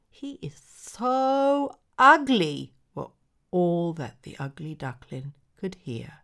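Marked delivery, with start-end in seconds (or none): 0.1-2.7 slow, high, loud sneer; high sneering sibling. Acted. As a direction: drag out the taunt, high and mocking. Siblings mocking the ugly duckling.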